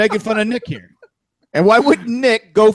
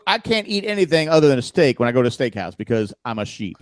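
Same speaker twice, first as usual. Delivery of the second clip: put-on Southern accent; 3 semitones lower than usual. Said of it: "The accent, Jack".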